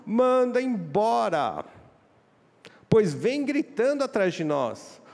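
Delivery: high, loud, slow demand; insistent demand. Acted. Disciples pressing Jesus to send the shouting woman away, loud and slow. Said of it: "Os discípulos falaram pra Jesus".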